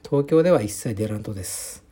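deliberate Hakata-dialect answer; forced Hakata dialect. Shown as a demonstration. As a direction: put on a Hakata accent, a bit forced. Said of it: "ちょっと博多弁で無理やり話してみました".

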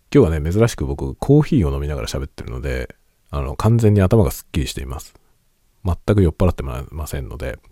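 talking between sips of coffee; while sipping coffee. Real, not acted. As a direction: speak with a coffee cup at your lips.

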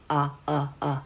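short あ with the mouth barely open; loose, lax あ like the u of umbrella; relaxed a. Shown as a demonstration. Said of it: "脱力して".

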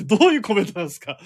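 laughing. Real, not acted. Laughing at a listener comment.

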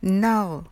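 "no" drawn out as the English nul of annul; slow demo of "no", ending on an English L; second syllable alone. Shown as a demonstration. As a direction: stretch "no" slowly as a separate model syllable. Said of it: "その後にno".

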